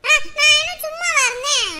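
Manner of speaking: loud, high defensive shout; indignant retort. Acted. Son defending himself to his mother, indignant retort. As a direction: fire back loudly in protest.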